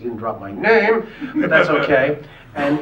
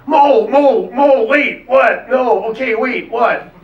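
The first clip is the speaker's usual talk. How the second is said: high, loud squeaky voice; Howie Mandel voice; 10 semitones higher, 10 dB louder, much slower than usual. Retold or imitated. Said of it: "back when he used to talk like that".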